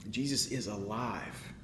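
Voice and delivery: soft, low, "Jesus" leaned on; hushed declaration. Real, not acted. Preacher quietly restates the heart of the sermon. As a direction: say it softly, like a truth that settles.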